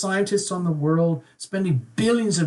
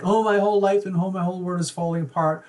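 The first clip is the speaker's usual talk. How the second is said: fast, slightly higher panicky imitation; mock panic; 3 semitones higher, faster than usual. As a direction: rattle it off like a client in mild panic. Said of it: "if this looks to you very, very scary and like".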